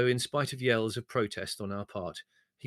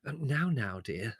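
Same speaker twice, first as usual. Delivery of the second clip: placating; 3 semitones higher, slower than usual. Acted. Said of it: "said Mother placatingly".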